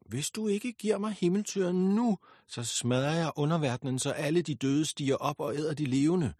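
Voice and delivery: high, loud raging demand; furious threat. Acted. Goddess threatening her father, high loud fury. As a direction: scream the ultimatum at him.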